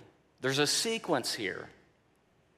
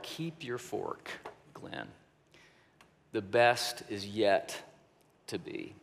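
gentle whisper; 8 semitones lower, 6 dB quieter than usual. Retold or imitated. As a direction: hush it like a voice whispering to a lonely heart. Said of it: "the Spirit of God whisper to my heart".

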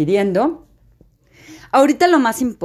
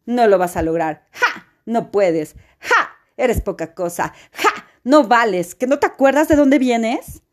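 scornful little voice, jeering with a laugh; mocking inner voice. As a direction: sneer at her like a cruel inner critic. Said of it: "la vocecita que te dice". (voz burlona y despectiva)

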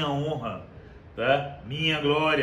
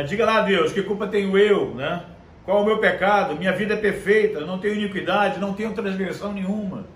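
louder, brash demand at God, half acted; defiant challenge to God; 3 semitones higher, 3 dB louder than usual. Preacher mimicking Job challenging God, defiant and loud. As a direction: dare God to name your sin, loud and cocky. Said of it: "eu desafio você a falar assim com Deus".

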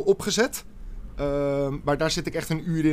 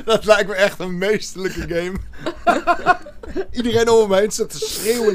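giggling through the words; laughing; 6 semitones higher, 6 dB louder than usual. Real, not acted. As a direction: laugh while saying it. Joking about deaf game.

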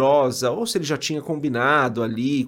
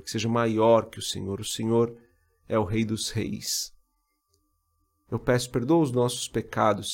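prayer; 3 semitones lower than usual. Acted. Prays aloud.

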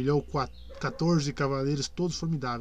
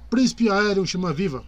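loud herald's proclamation; town crier; 5 semitones higher, 7 dB louder than usual. A narrator's reading. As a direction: announce it to the whole field. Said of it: "um arauto gritou".

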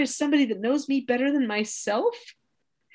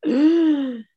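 a sharp, louder "No" with a gasp before it; sudden no; 5 semitones higher, 5 dB louder than usual. Retold or imitated. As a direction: blurt the no, caught out. Admitting she is not calm.

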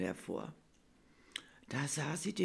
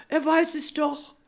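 put-on much higher, louder panicked child; frightened child thought; 12 semitones higher, 10 dB louder than usual. Bella fearing Nikolaus knows her secret, high and alarmed. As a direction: squeak it out in alarm. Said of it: "dachte Bella erschrocken".

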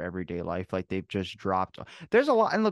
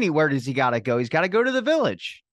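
mock old man voice; 4 semitones higher, 4 dB louder than usual. Mocking the retiree.

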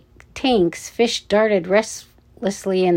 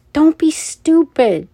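higher, louder urgent hiss; strained hushed scream; 8 semitones higher, 6 dB louder than usual. A narrator's reading. Richie stops Ella going in, strained under-breath scream. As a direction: scream a warning through a held-back voice. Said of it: "screamed under his breath".

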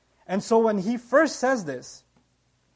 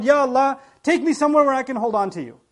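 mild imitated scream, raised voice; louder, pleading call, acted in retelling; retold cry to God; 3 semitones higher, 5 dB louder than usual. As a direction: cry out to Allah for rescue, half-shouted. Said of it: "screaming out loud".

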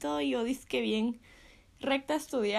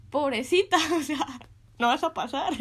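mock pity; 3 semitones higher, 6 dB louder than usual. Maestros compadecen, imitados riendo.

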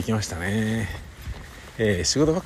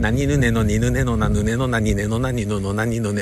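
deliberate na-row drill; articulation drill. Shown as a demonstration. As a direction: tap out each syllable. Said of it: "うわ、遅い".

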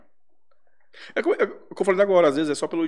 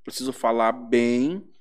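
slow, lower, deliberate self-coaching; firm self-talk; 5 semitones lower, slower than usual. Acted. Telling herself how to talk to clients, slow and firm. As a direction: spell it out slowly, low and firm. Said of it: "entonação de voz mais potente".

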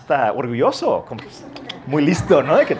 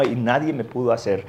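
normal talking voice

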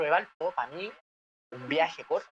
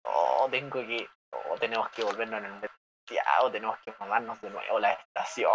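whiny complaint; 7 semitones lower than usual. Retold or imitated. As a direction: whine about going back. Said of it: "weón, llorón".

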